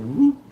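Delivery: short rising whoop sound effect; quick whoop for a wheel slipping out; imitated whoop. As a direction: mimic a sudden slide with a whoop. Imitates bike sliding out, retold.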